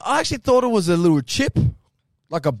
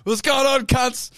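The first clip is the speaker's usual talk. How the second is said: frat bro; 6 semitones higher, slower than usual. Real, not acted. Hyped greeting back.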